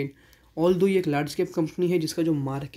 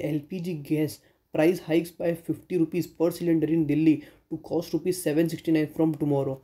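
headline read; much slower than usual. Acted. Reading out the news headline.

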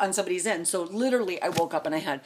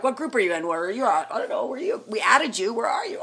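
frantic group chatter; 5 semitones higher, 4 dB louder, faster than usual. Retold or imitated. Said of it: "It was more like".

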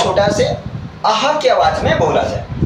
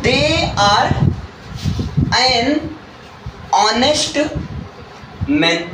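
slow dictation; much slower than usual. Shown as a demonstration. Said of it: "अगर जैसे मैं कहूँ".

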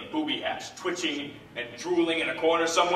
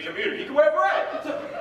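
mock French accent; 11 semitones higher than usual.

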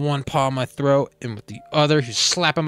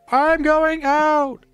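very high, loud and drawn out slowly; bold declaration; 6 dB louder, much slower than usual. Acted. Barry telling Adam over the phone, high and bold. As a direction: announce it like a daring vow.

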